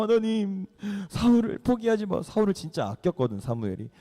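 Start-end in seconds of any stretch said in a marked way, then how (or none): 0.0-2.2 higher-pitched acted weeping plea; imitated tearful pleading; mock tearful plea. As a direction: beg God as if starting to cry. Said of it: "사무엘이 막 울기 시작해요".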